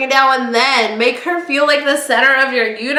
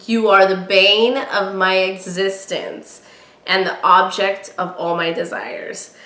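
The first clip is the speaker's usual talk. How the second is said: romantic quote reading; 4 semitones lower than usual. Shown as a demonstration. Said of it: "the classic one is".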